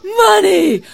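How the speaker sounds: high, loud cry of delight; greedy cry. A narrator's reading. Labai hears of gifts of money, greedy cry. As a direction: cry out, thrilled by riches. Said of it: "cried Labai".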